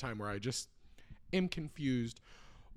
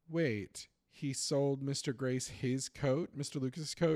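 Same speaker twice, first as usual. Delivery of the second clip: confused question; 2 semitones higher than usual. Retold or imitated.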